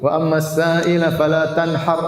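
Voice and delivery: slow, mock-solemn imam recitation; preacher mocks an imam reciting wrongly to the congregation, slow and solemn; mimicking the imam. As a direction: imitate an overconfident imam mangling the verse. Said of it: "Dia baca begitu".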